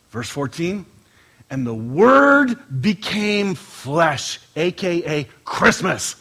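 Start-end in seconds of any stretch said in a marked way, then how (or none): 1.5-4.4 scripture reading. Acted. Pastor reading John to the church, slow solemn scripture. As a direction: read it out like holy writ, slowly.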